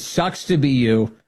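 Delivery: slow, breezy mock-cheerful quote; lightly imitated sunny taunt; imitating cheerful. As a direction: echo her cheery put-down, slowly. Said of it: "she says it so cheerfully".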